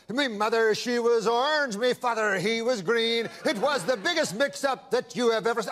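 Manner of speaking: lightly put-on Irish lilt; Irish accent. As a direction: slip into a mock Irish accent. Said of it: "you're an Irishman".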